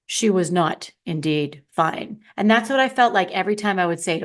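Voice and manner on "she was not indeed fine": lowered, slow storybook narrator. Retold or imitated. Speaker mocking herself as a grave narrator. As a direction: intone it like a film narrator. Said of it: "The narrator".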